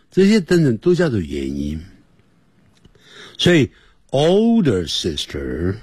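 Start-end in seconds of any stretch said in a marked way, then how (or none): 4.1-5.8 put-on "older sister" slowly drawn out; slow model reading. Shown as a demonstration. Teacher modelling the phrase for students, slow demonstration. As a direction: stretch out "older sister" at half speed. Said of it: "那前面就要加个an".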